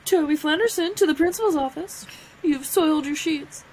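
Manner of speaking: Michael's intercom announcement. Acted. Co-host quoting the boss's intercom prank, announcer-like. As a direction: announce it over the office intercom. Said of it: "Michael has the intercom over all the phones".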